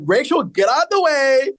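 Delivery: playful high-pitched mock plea; high mock whiny. Teasing friend, voicing cohost shoving Rachel aside, high mock whine.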